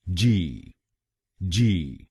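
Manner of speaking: जी said as ji; last syllable. Shown as a demonstration. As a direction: model the syllable जी. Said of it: "हम बोलेंगे".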